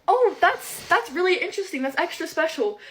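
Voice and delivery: mock sarcastic. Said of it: "And we're like".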